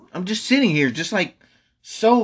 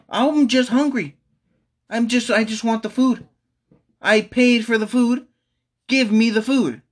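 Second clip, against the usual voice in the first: frustrated whine; 4 semitones higher than usual. Real, not acted. Frustrated demand for pizza.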